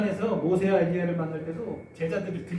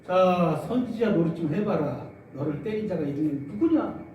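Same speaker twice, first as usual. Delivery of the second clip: louder, jeering challenge; mock-voiced guard jeering at the prisoner, loud; loud mocking taunt; 5 dB louder than usual. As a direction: taunt him like a sneering soldier. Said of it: "조롱합니다".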